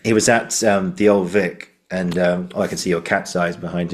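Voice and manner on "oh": ordinary delivery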